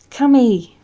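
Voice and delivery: loud mock-scolding cry; aunt scolding her nephew for swearing. A narrator's reading. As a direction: tut at his language. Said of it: "Aunt Jeanne swats his arm".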